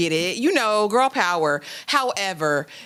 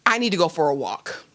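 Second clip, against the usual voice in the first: low, subdued, acted withdrawal; subdued retreat; 5 semitones lower than usual. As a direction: say it low, as a stunned man excusing himself. Acted stunned man leaving the scene.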